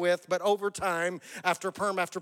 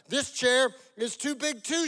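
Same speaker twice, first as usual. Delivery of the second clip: higher, mildly whiny storybook voice; whining; 6 semitones higher than usual. A narrator's reading. Goldilocks in the second chair, mildly whining. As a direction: make it a light complaint. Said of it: "she whined".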